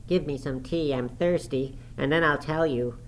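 put-on high, petulant boy's voice; peevish sickly youth. A narrator's reading. Thirsty Linton bargaining with his cousin, high peevish voice. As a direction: demand it in a high, self-centred whine.

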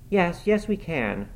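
high quick burst on the first yes; girl insisting brightly, first yes very high; eager protest. Acted. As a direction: jump in before she can refuse. Cathy eagerly contradicts the servant.

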